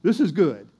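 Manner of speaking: lightly acted joy at good news; excited Naomi. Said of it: "Now she's excited".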